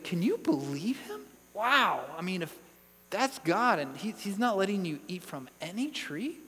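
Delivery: mildly scandalised, astonished disbelief; mock incredulous. Preacher voicing what the serpent wants Eve saying, incredulous. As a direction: plant doubt with an amazed, questioning lilt. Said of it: "he wants Eve to say".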